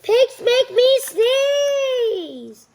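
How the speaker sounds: high, slow, crying; crying wail. Acted. Gerald crying to Doctor Cat about Piggie. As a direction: wail it out in despair.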